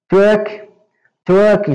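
truck with the U sounding like O. Shown as a demonstration. Teacher explains U sounds like O in truck, modelled pronunciation. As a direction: say truck as \"trok\", open vowel. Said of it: "C U com som de O".

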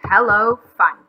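loud greeting call. A narrator's reading. McGreely driving off to the beach, called out. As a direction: call it out loudly. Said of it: "he called out".

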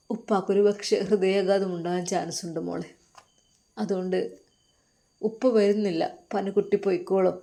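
soft, tearful, quiet voice; father crying. Acted. Father explaining to daughter why he won't come, softly tearful. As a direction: speak through held-back tears. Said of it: "ആ പിതാവ് കരഞ്ഞുകൊണ്ടായിരുന്നു അത് പറഞ്ഞത്".

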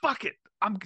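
psyched fighter shouting himself up; pumped-up fighter. Retold or imitated. Fighter shouting himself into the fight.

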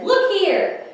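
high, loud "Look here"; mother duck scolding the fox; Mama's scolding call. Acted. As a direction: catch him out like a stern mother duck. Mama catches the fox.

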